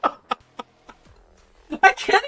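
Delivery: slowly, through laughter; barely keeping a straight face; talking while cracking up; laughing. Real, not acted. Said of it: "can't even say this with a straight face".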